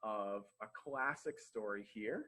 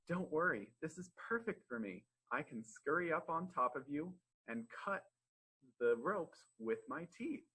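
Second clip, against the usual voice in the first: lightly voiced, higher-pitched little mouse; reassuring mouse; 5 semitones higher than usual. Little mouse tells the trapped lion not to worry, reassuring. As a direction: offer help eagerly in a small high voice.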